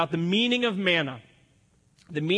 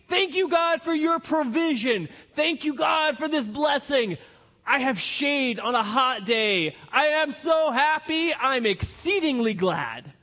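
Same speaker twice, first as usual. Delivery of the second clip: higher, gushing thanks to God, hammed up; mock happy Jonah; 4 semitones higher than usual. Preacher voicing Jonah thanking God for shade, mock gushing. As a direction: play Jonah overjoyed about his shade.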